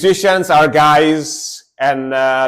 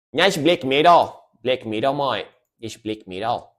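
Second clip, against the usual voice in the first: playful put-on Aussie accent; imitated Australian accent. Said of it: "I try to imitate a lot".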